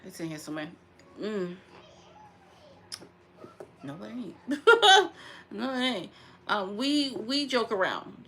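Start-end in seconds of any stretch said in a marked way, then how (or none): 3.8-6.1 laughing it off. Real, not acted. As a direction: chuckle through the words. Laughing at own mistake.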